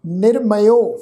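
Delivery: ਨਿਰਮਯੋ said slowly, each syllable clear; ਨਿਰਮਯੋ as a clear teaching model; careful pronunciation. Shown as a demonstration. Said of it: "ਇਹ ਸ਼ਬਦ ਦਾ ਪਾਠ ਉਚਾਰਨ ਕਰਾਂਗੇ".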